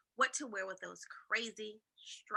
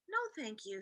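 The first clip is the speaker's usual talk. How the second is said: sighed reply; 3 semitones lower, 5 dB quieter than usual. Acted. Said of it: "sighed Camilla".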